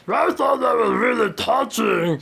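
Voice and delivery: gushing dreamy judge praise; a singer's voice. Acted. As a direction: float it up like a dazed sweet judge. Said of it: "says the reanimated corpse of a singer".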